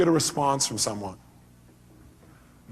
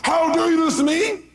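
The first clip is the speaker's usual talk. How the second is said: even higher shrill echo; mock angry cry back; 13 semitones higher, 4 dB louder than usual. Speaker acting the other person answering in kind, higher. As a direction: throw the same cry right back. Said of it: "You go".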